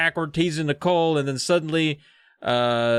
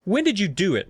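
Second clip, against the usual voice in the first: mock scolding; 6 semitones higher than usual. Nicole asks Jordan when he faked the prints, mock scolding. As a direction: demand an answer with light indignation.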